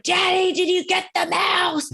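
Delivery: put-on high, slow little-girl voice asking about the mouse; imitating his small daughter's high, hopeful question. Dad imitating his little daughter asking about the mouse, high and slow. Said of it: "And she's like".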